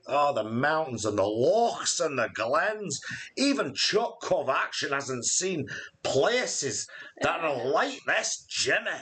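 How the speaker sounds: a hint of a Scottish accent, slowed; lightly put-on Scottish accent. Praising Scottish scenery to viewers, light Scottish accent. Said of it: "my Scottish accent".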